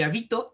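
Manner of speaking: "habito" with the voice loaded on BI; stress on middle syllable. Shown as a demonstration. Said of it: "dependiendo dónde nosotros estamos acentuando esa palabra".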